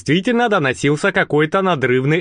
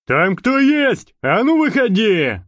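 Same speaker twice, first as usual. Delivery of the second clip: slow, higher call from far away; guard calling from afar; from deep in the corridor; 8 semitones higher than usual. Acted. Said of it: "Донеслось из глубины коридора".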